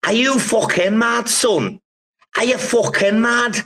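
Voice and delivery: high, incredulous Scouse yell of disbelief; mock outraged kebab man. Kebab shop man scolding lads planning to camp, high incredulous mock yell. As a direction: ham up a kebab man who thinks you're mad. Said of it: "I remember this guy just going".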